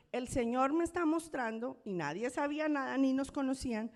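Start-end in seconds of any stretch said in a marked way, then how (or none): 0.1-1.8 pastor profetizando. Retold or imitated. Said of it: "en su don de profecía, dice".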